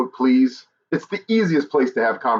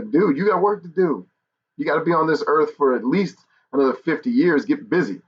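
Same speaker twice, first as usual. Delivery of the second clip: imitated pep talk, pitched up; higher, hammed-up telling-off, not negative; flamboyant fatherly prodding; 6 semitones higher than usual. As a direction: play a dad urging son on. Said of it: "I'm a little more flamboyant".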